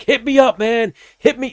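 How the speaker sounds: very high mock shout; calling back while being dragged off; imitating a fighter hauled away by security; yelled goodbye.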